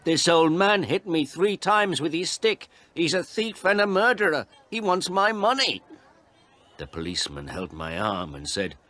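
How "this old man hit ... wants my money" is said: very high, agitated complaint; outraged, high-pitched denunciation; shouted accusation. A narrator's reading. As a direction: shout your grievance to the police. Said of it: "The photographer shouted to the policeman".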